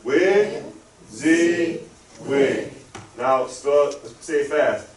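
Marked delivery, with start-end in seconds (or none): 0.0-2.7 Wig, Z, wig in three separate beats; slowly by syllable. Shown as a demonstration. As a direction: start Wig high and step down through Z to wig. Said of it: "say it slowly by syllable".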